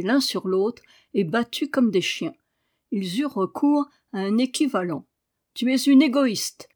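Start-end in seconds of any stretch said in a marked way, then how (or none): 5.5-6.7 high, loud accusation; angry cry. A narrator's reading. Sick boy accusing the girl, with a high angry cry. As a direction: hurl the word at her. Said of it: "cria Daniel".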